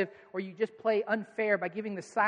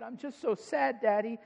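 put-on sad child; 2 semitones higher than usual. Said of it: "You've been crying really hard".

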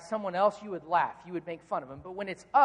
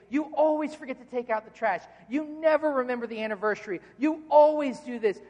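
higher-pitched mock accusation, slowing at the end; mad; 4 semitones higher, 4 dB louder than usual. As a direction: hurl exaggerated blame at a partner. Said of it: "you're mad and you say".

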